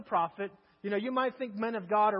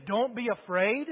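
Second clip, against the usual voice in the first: louder, rising disbelief on Don't be afraid; incredulous echo; 3 dB louder than usual. Retold or imitated. Servant mocking the prophet's advice, loud and incredulous. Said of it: "and your word to me is".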